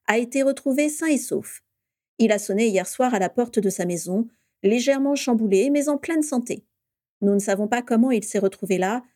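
bright radio news read; radio news bulletin. Acted.

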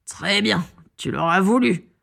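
villain's contained fury; understated, menacing rage; seething rage. A narrator's reading. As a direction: threaten through restrained anger. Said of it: "écumant de rage".

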